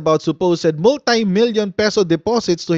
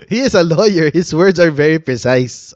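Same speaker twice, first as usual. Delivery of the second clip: imitating Tony Gandang Harry; 4 dB louder than usual. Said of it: "Sabi ni Tony Gandang Harry".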